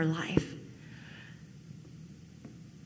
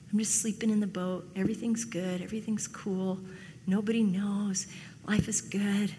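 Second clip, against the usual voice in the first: lightly voiced laid-back contentment, softer; mock complacency; 5 dB quieter than usual. Runner from God at rest in the boat, mildly complacent. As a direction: play someone lulled and untroubled, easing off quietly.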